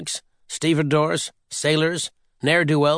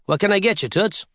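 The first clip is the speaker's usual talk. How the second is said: higher charming come-on; smooth bartender charm; 6 semitones higher than usual. Acted. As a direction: turn on the charm. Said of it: "I said to the dame".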